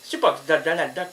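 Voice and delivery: ordinary delivery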